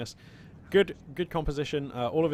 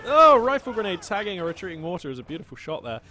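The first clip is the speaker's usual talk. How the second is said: louder, thrilled call of the shot; excited shout; 4 semitones higher, 9 dB louder than usual. Real, not acted. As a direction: call it out with a rush. Exciting play in casting.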